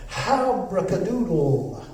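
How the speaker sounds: slow, drawn-out magic word. Acted. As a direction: announce the spell slowly. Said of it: "Now I will say the magic word".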